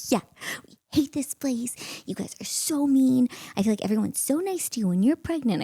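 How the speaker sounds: worked-up mock tirade; retold rant. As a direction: launch into an exasperated rant. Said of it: "I went on this whole rant".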